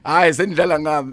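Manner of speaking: laughing through the words. Real, not acted. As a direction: say it while laughing. Guest joking after wrong answer.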